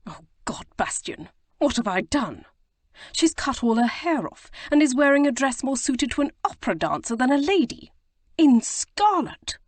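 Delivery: rising desperation as realization hits; hoarse and desperate. A narrator's reading. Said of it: "in a hoarse, desperate voice".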